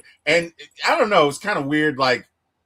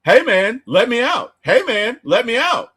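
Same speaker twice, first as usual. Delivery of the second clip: higher, pleading mock vampire plea; imitating Stack begging; 7 semitones higher than usual. Podcaster imitating Stack begging to be let out, pleading.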